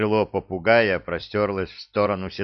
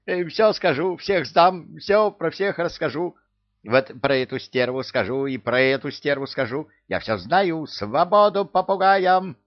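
high, loud eager squawking; eager parrot; 9 semitones higher, 3 dB louder than usual. A narrator's reading. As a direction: blurt it all out. Parrot offers to snitch.

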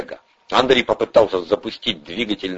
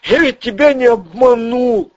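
high, jittery small-time crook; squeaky nervous crook voice; Ryzhy's voice; 5 dB louder than usual. Acted. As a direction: pitch way up and talk fast like a nervous hustler. Ryzhy pleads.

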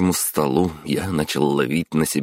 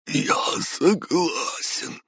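terrified whisper; much slower than usual. Acted. Boss terrified at knifepoint.

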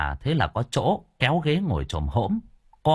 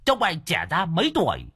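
higher, teasing jab; mock compliment, pitched up; mocking taunt; 7 semitones higher than usual. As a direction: tease your hapless sidekick. Đồng taunting his injured underling.

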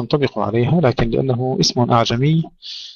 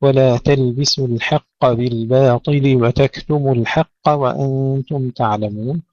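slow, measured tajwid recitation; careful chanted verse; Quran recitation; slower than usual. Acted. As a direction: recite with held vowels and nasals.

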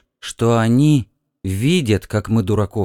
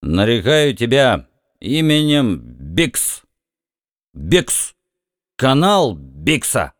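put-on drunken slur; slower than usual. A narrator's reading. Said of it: "заплетающимся языком бормотал Бикс".

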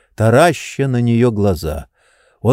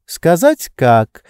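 slow, sly and teasing, pitched higher; 6 semitones higher, 4 dB louder, much slower than usual. A narrator's reading. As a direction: tease him slyly. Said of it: "лукаво дразнила она". (лукаво дразня)

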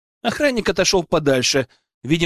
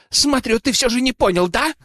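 higher, snarled threat; growl; 8 semitones higher than usual. A narrator's reading. Nobleman snarling at the hero, high and threatening. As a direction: growl it at him. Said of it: "рыкнул он".

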